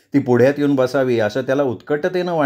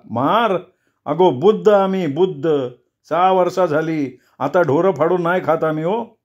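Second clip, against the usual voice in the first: shaken protest; 4 semitones higher than usual. Acted.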